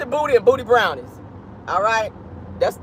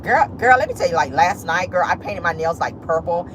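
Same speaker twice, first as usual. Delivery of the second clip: put-on gossipy girlfriend. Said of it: "But you come out like".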